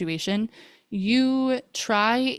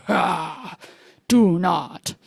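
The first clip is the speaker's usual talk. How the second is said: forceful retold reprimand, louder on the command; scolding mother; 3 dB louder, much slower than usual. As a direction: re-enact laying down the law to a child. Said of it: "like a mother scolding a child".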